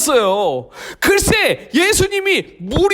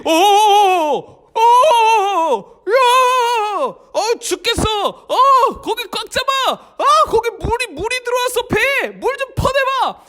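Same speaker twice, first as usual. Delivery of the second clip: panicked disciples; 8 semitones higher than usual. Acted. Disciples in the storming boat, high panicked cries. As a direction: scream as the boat floods.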